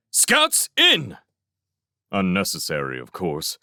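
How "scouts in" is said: high, loud call to the troops; shouted command. A narrator's reading. Felix interrupts the scouts' alarms, shouting an order. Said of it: "long enough to shout".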